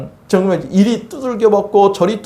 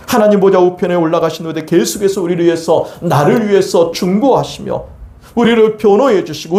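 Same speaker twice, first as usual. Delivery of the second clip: usual speaking voice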